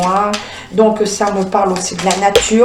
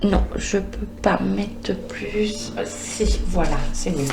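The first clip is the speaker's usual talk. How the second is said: muttered aside; 9 dB quieter, slower than usual. Real, not acted. Adjusting something, muttering aside.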